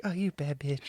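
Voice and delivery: shy, soft whisper; inner monologue. Retold or imitated. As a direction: whisper it shyly to yourself. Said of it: "but in a whisper and, like, kinda shyly".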